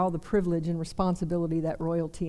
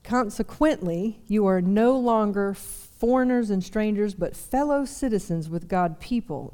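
scripture reading. Acted. Pastor rereading verse nineteen to the congregation, deliberate. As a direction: read each phrase with weight.

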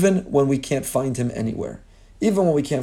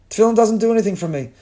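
higher, fast mock-whiny complaint; mocking young man; 8 semitones higher, 3 dB louder, faster than usual. Rabbi mimics bored young men dismissing tefillin, mock whine. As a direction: parrot their dismissive whine, pitched up. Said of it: "and they said".

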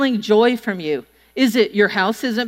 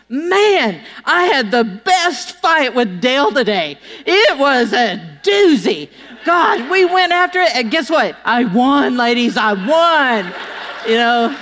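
mock boasting; slower than usual. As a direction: gloat playfully to the ladies. Mock social media fight post.

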